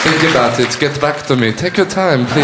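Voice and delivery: low French philosopher; French accent. Acted. Philosopher giving listeners time to think, low French accent. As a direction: invite reflection in a French accent. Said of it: "said that in a French accent".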